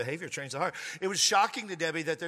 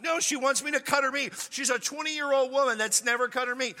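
worked-up protest; 8 semitones higher than usual. Retold or imitated. Defending himself to his friend, higher worked-up protest. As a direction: protest it indignantly.

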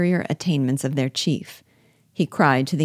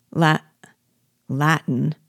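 stammered, broken-off word; astonished stammer; slower than usual. A narrator's reading. Astonished soldier answering his general, stammering. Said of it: "stammered the astonished Negro".

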